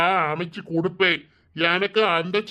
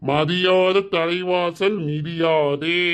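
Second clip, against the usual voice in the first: very slow, weighted saying; slow proverb; much slower than usual. Acted. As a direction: spell the proverb out slowly. Husband quoting proverb pointedly.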